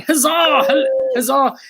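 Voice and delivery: bright festive cheer; cheering huzzah. Real, not acted. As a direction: cheer like at a fair. Cheering the guest.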